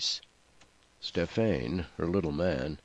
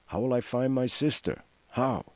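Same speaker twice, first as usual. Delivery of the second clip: higher-pitched anxious questioning; narrated panic, pitched up; desperate demand; 7 semitones higher than usual. A narrator's reading. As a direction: demand an answer in mounting distress. Mother being abandoned at sea.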